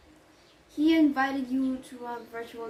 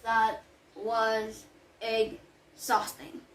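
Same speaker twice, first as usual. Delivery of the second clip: weary sigh; much slower than usual. Acted. Nanny back from hurried errand.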